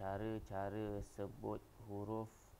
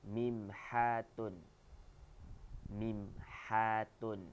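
slow model word; much slower than usual. Shown as a demonstration. Teacher models new Arabic vocabulary slowly and clearly. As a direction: say it slowly for pupils to copy.

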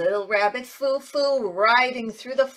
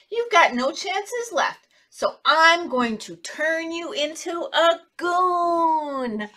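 stern fairy; 5 semitones higher, much slower than usual. Acted. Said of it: "and she said".

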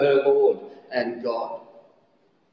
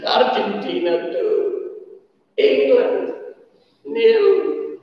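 mock tearful call; 11 semitones higher, much slower than usual. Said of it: "he bursts into tears".

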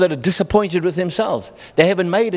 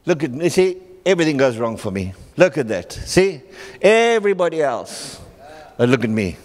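lightly voiced self-pity, low and sorry for himself; self-pitying moan; 4 semitones lower than usual. Imitating people full of self-pity, mild moaning. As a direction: mope about your own bad luck.

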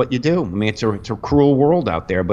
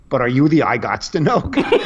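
laughing. Retold or imitated. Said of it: "I go up and go".

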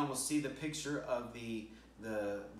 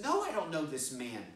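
mildly raised, heated no; a touch of anger in the denial; Peter's mock angry denial; 4 semitones higher, 5 dB louder than usual. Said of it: "And then he gets so mad".

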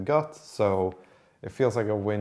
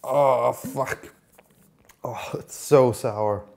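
disgusted; 4 semitones higher, 6 dB louder, much slower than usual. Real, not acted. Reacting to a sour drink.

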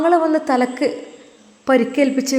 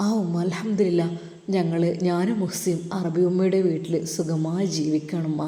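put-on young man Sinan; 6 semitones lower, 3 dB quieter than usual. Son-in-law Sinan telling his mother-in-law on the phone, lower respectful male voice.

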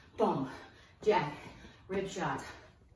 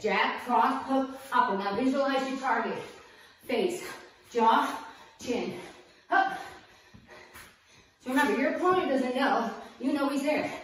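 pumped-up, louder coaching; energized coach; 3 semitones higher, 3 dB louder than usual. Acted. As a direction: drive the class with energy.

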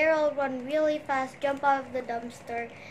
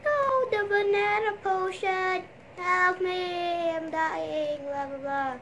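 mock ghost scream; 6 semitones higher than usual. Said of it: "Ghost screamed".

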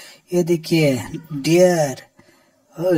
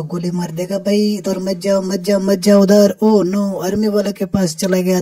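higher, louder urgent warning; play alarm; 5 semitones higher, 5 dB louder than usual. Pretend. Warning the dinosaur away from the police and army, in play alarm. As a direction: call out in mock panic, pitch raised.

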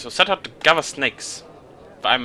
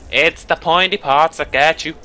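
put-on a slow, louder, odd old monster voice; bizarre voice; 2 semitones higher, 5 dB louder than usual. A lightly odd voice for Grit Mitten's warning. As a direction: drag it out strangely. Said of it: "in a bizarre voice".

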